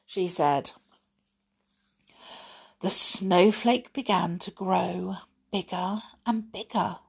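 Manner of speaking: put-on reading a fairy story to children; gentle storybook read-aloud; story narration. A narrator's reading.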